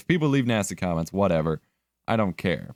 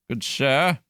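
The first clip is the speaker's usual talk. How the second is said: usual speaking voice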